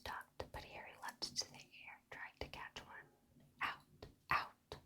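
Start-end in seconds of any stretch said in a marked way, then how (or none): 3.6-4.8 shouting. Acted. Vernon yelling at family.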